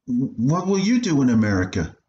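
put-on a kid asking his mother about her plans; curious boy. Boy asking his mother about America.

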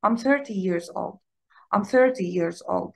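slow, with "thir" in thirty stressed. Shown as a demonstration. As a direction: hit the start of thirty. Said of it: "ما يلخبطش بينها وبين". (الضغط على أول thirty)

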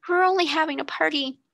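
tearful explaining. A narrator's reading. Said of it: "she sobbed".

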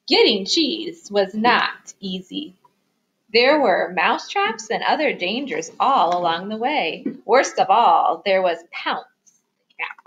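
lively picture-book reading, stressing key words; story narration for children. A narrator's reading. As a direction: read it aloud to little listeners. Reads picture book aloud.

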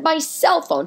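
obvious reply. Retold or imitated. Quoting herself, obvious.

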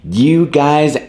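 loud, high, hyped YouTube intro; excited greeting. Acted. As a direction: greet the viewers with big energy.

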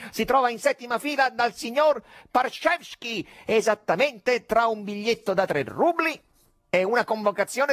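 Fagotto declaring. A narrator's reading. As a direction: announce it like a cheeky stage conjurer. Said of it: "dichiarò".

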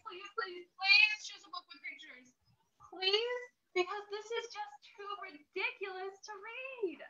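whiny, begging protest; mock pleading. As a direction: beg like a desperate grown-up. Reader begging children.

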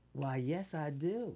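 imitated Southern courtesy; Southern accent. Actress answering co-star about her book, Southern accent. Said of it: "checked into the hotel with the accent".

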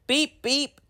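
engine whistle. Acted. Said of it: "answered Thomas".

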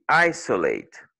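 "isolate" as EYE-suh-late; strong first syllable, weak middle in "isolate"; schwa in isolate. Shown as a demonstration. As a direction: reduce the O of "isolate" to "uh". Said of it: "prononcé comme un schwa".

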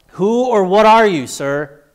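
high, loud cry into the blinding light; daring question. Acted. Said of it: "I dared to ask".

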